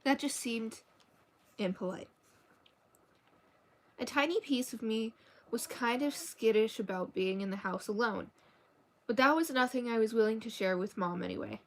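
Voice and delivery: even, measured novel reading; story narration. A narrator's reading. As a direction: read the story aloud evenly. Reads a novel aloud.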